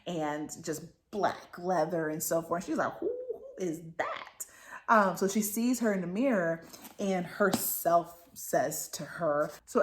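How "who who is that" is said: high-pitched "who is that"; mock startled, pitched way up and softish; startled reaction. Acted startled reaction to the reflection.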